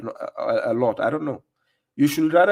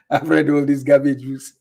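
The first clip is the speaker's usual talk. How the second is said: sneering mock of a show-off; mock boast; 3 dB louder than usual. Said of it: "They are trying to tell you".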